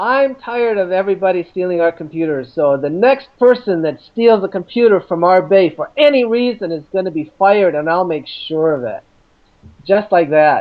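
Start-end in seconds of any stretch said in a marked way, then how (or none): none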